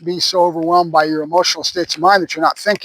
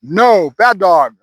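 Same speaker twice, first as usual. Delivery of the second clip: forceful correction; 3 dB louder, much slower than usual. Shown as a demonstration. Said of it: "It's more forceful. It's more down".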